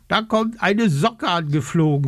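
high, cheeky mouse voice calling out. A narrator's reading. The mouse spots the raven and calls out cheekily. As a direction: tease like a cheeky little mouse. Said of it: "ruft sie frech".

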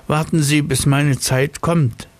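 high, self-important snail. Acted. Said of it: "sagte sie".

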